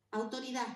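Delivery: "autoridad" with the final d dropped; soft "autoridad", last consonant missing; swallowed consonant. Shown as a demonstration. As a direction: end "autoridad" on an open a, swallowing the d. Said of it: "articulación blanda y deglución de consonante".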